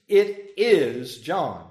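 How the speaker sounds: final, no arguing; emphatic. Shown as a demonstration. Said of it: "It's settled".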